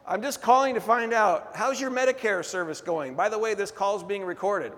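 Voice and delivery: phone caller. Retold or imitated. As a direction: mimic a spam caller's fake friendly opener. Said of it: "sometimes they call and they'll say".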